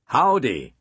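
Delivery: friendly, lightly voiced greeting; disarming. A narrator's reading. Teacher welcoming the next student, disarming. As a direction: put the nervous student at ease. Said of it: "he said disarmingly".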